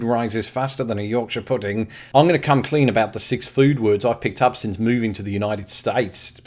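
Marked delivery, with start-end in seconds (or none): 2.1-6.4 slipping into an accidental Australian accent; Australian vowels creep in unbidden. Real, not acted. British vlogger slips into an Australian accent mid-sentence. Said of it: "I don't know why I went all Australian".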